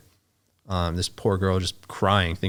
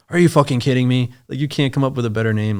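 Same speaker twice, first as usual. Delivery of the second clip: incredulous outburst; 5 semitones higher, 6 dB louder than usual. Retold or imitated. John mocking her fake-sounding name.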